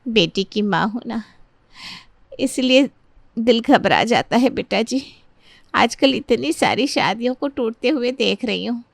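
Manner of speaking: halting, tearful worry with pauses; understated weepy voice, broken by pauses; tearful mother. Acted. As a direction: play a mother holding back tears. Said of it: "आप रो क्यों रही हैं".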